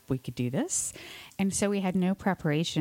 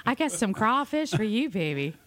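higher-pitched playful Louisiana come-on; mock Louisiana accent; 3 semitones higher than usual. Host joining the wrestler bit, flirty Louisiana accent. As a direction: tease in a put-on Louisiana accent. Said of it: "Do a Louisiana wrestling team accent".

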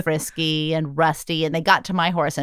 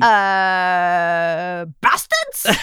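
mock English accent; much slower than usual. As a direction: finish the insult in a silly English accent. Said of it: "how good is your English accent?".

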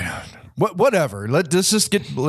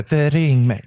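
imitated ringmaster voice; 3 semitones lower than usual. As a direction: lower mock ringmaster voice. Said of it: "ringmaster voice".

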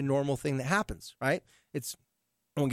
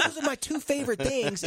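laughing; 8 semitones higher than usual. Retold or imitated. Teen's whiny quote.

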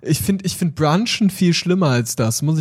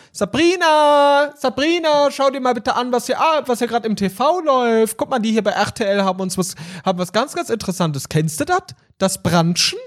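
higher, calling out to daughter; higher calling mum voice; 5 semitones higher than usual. Retold or imitated. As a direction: call out like an excited mum.

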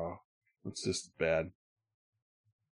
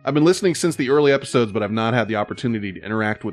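reading a letter aloud; 3 semitones higher than usual. Acted.

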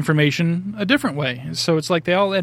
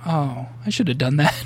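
laughing. Retold or imitated. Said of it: "I can just imagine him looking at it, like, going".

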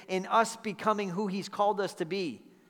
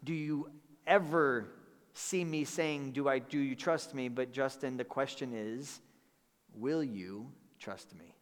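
gentle whisper; 4 semitones lower, 5 dB quieter than usual. Retold or imitated. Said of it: "or gently whispered to me".

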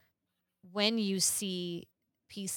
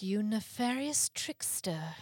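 whispered, slow mock insult; mock villain whisper. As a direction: hiss it like a pantomime villain. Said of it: "you're gonna be like".

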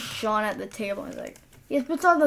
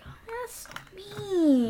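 breathy whispered aside, higher in pitch; whispered pity; 8 semitones higher, 4 dB quieter than usual. Retold or imitated. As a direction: whisper it like a pitying reaction during the movie. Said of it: "I was like".

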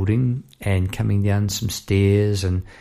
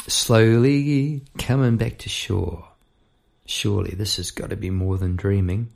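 spoken-word poetry. Acted. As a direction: recite it like a poem. Recites own lyrics.

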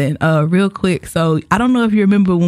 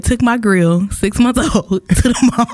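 reading aloud, losing it to laughter; cracking up; 3 semitones higher, slower than usual. Real, not acted. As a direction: try to get the post out before laughing. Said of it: "I'm not gonna be able to get through it".

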